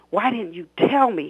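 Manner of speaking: a mild angry demand. Acted. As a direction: confront the son, accusing. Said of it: "he demanded".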